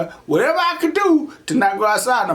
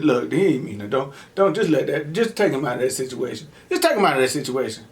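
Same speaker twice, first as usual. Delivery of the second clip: lightly voiced father begging Jesus; daddy pleading; 6 semitones lower than usual. Daddy asks Jesus to spare the boss, low plea. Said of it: "my daddy talking to Jesus saying".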